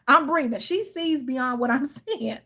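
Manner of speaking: talking through giggles; breathless laughter through the words; laughing. Real, not acted. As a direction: catch your breath while laughing. Laughing at own rant.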